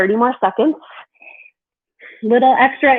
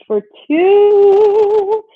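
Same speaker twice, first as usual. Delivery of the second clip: energetic count; 10 semitones higher, 6 dB louder than usual. Real, not acted. Fitness instructor counting down.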